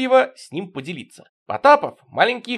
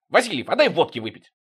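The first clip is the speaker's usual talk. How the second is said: sudden blurt; 5 semitones higher than usual. Acted. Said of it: "Потапов внезапно".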